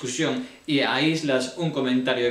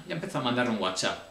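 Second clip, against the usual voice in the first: ordinary delivery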